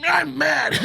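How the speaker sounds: high-pitched pouty imitation; mock mad. Storyteller mimicking Crystal coming back in, pouty mock anger. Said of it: "came back in all".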